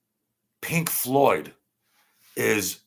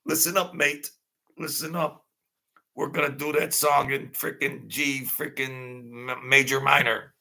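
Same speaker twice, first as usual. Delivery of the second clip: lightly imitated English musician, starting pitched up; mock arguing bandmate. Streamer shows how the band argued, mock bossy musician. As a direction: play at bossing the band around. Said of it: "They were like this".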